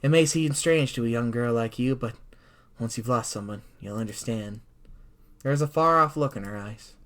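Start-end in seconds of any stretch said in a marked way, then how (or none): 0.0-4.6 low, grave warning from a world-weary bird; somber, haunted mentor tone; solemn sparrow. Acted. Voices the solemn sparrow Azami.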